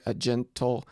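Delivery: "a gentle" with light A, stressed GEN. Shown as a demonstration. Lecturer scanning a line's first foot, stress on GEN. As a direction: lean on GEN in "gentle", keep "a" unstressed. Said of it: "the unstressed and the stressed syllable".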